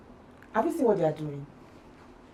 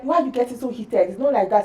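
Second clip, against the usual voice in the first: higher-pitched mock questioning; retold challenge; 5 semitones higher than usual. Others telling her to calm down, mock challenge. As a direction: imitate people challenging her.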